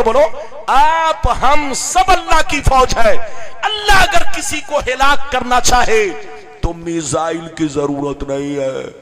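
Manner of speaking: loud, rising sermon cadence; a preacher roaring God's power to the crowd; fiery preaching. Acted. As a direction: drive it home to the congregation. Preaching at full force.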